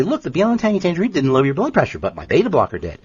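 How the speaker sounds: a smug doctor brushing off the supplement; mocking the medical model. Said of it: "And they'll say".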